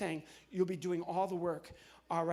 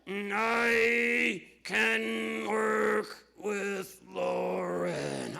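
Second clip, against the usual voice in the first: louder, very slow puppet drawl; 6 dB louder, much slower than usual. Acted. Puppet Zero agrees to work with Lauren, slow. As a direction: stretch each word like a dopey puppet.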